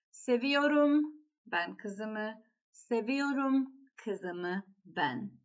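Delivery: weight on the opening verb "seviyorum" each time; stress on seviyorum. Shown as a demonstration. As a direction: lead firmly with "seviyorum", then drop. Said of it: "emphasis is on the verb itself".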